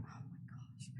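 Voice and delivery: breathy whispered oh my gosh; a whispered aside of disbelief; whispered gasp. Retold or imitated. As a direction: hush it like you're stunned. Whispered shock at the rain.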